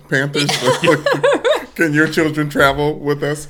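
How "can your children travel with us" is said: louder, laughing through the question; laughing joke. Pretend. Pitching kids to the Panthers as a joke, laughing. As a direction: tease with a laugh.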